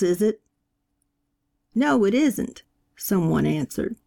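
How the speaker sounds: a hint of a fire-and-brimstone preacher questioning the mourners; preaching. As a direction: press the questions on the congregation. Preacher holds the room.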